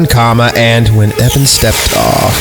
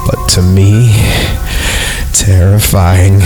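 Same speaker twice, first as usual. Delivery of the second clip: hushed dread; slower than usual. Acted. Narrator admits terror.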